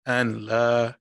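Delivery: slow, careful syllables for repeating; measured call-and-response Arabic recitation. Shown as a demonstration. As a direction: say it slowly so a learner can repeat. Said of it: "I'm gonna say it slow in Arabic".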